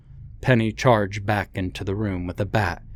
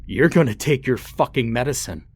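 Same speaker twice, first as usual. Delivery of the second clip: higher, louder furious scream; 5 semitones higher, 4 dB louder than usual. Acted. Father screaming in his son's face. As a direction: roar it inches from his face.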